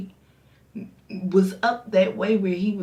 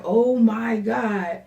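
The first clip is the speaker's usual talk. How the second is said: slow shocked gasp; 3 semitones higher, 6 dB louder, much slower than usual. Retold or imitated. Shocked reaction.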